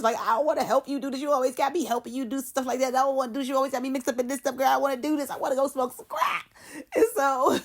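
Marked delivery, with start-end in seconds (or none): 0.2-6.5 higher, hurried whiny complaint; mock crying. Denise refusing to help Pat any more, mock crying. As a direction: protest in a put-on crying rant. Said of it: "so Denise get the crying".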